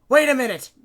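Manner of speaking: high, loud cry of alarm; panicked shout. A narrator's reading. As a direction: halt everyone with a yell. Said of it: "he shouted".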